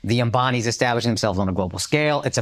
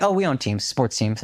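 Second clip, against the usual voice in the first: sweetly, not arrogant. Retold or imitated. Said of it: "very sweetly".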